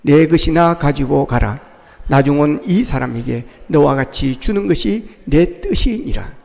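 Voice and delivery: slow, low unison scripture reading with the congregation. Shown as a demonstration. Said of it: "같이 읽겠습니다. 시작". (회중과 함께 천천히 낮게 읽는 성경 낭독)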